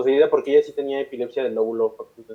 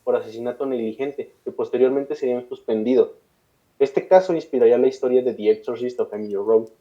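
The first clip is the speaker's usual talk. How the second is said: measured read-aloud storytelling; steady podcast narrator reading; scripted documentary narration. A narrator's reading. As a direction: narrate a dark case history from a script. Reads a prepared case account aloud.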